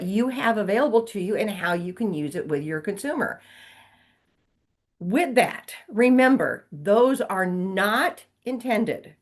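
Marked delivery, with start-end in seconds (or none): 5.0-9.2 "those are not intended" drawn out slowly, each word weighted; slow it right down so it sinks in; a deliberate, stretched-out reminder; slow emphatic warning. Shown as a demonstration. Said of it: "I will repeat that in case you went to sleep".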